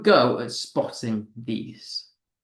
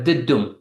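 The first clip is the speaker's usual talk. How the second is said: "dum" as the strong beat after a weak one; stressed beat; 2 semitones lower than usual. Shown as a demonstration. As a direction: land firmly on "dum". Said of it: "unstressed followed by a stressed syllable".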